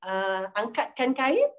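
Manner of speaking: gentle order with a lifted, rising end; nice intonation. Shown as a demonstration. Teacher demonstrating a kindly order to Anis, gentle. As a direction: give the order kindly, unhurried. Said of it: "kalau intonasi kita yang baik-baik".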